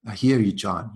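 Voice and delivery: light Irish lilt on a friend's words; quoting his Irish friend, lightly Irish; Irish accent. Retold or imitated. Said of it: "in this beautiful Irish accent".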